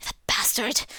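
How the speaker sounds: hissed under the breath; whispered curse. Acted. Max cursing his father in a whisper after storming out. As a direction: spit the insult without voice.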